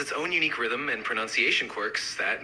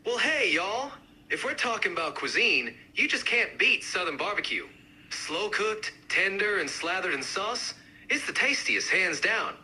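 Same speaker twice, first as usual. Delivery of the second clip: livelier, more pronounced Southern accent; amped-up Southern accent; 3 semitones higher than usual. Shown as a demonstration. Barbecue advocate arguing for the best dish, amped-up Southern accent. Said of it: "really amp up the accents".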